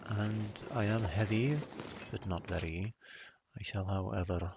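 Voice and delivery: a dry, mock-formal British accent; dry British accent, lightly put on. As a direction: play the stiff British gentleman, deadpan. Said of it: "switch back to my very dry British accent".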